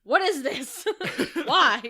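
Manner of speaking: confused, loud and laughing; baffled reader laughing in disbelief. Retold or imitated. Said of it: "Be like".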